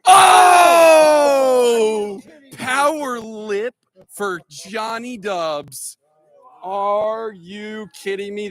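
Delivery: high, slow excited call; excited shout. Real, not acted. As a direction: shout it like a near miss. Near miss, excited call.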